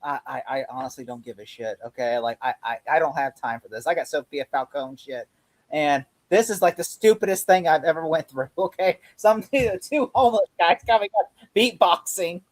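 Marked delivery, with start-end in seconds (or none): 0.0-8.5 imitating weary annoyance, low and soft at first; annoyed Penguin. Fan imitating Penguin fed up with the riddles, mildly annoyed. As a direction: lightly act fed up, too busy for this. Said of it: "he's just so annoyed".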